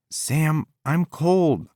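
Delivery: high, whining complaint; whiny. A narrator's reading. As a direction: whine like a spoilt girlfriend. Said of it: "That telltale whine".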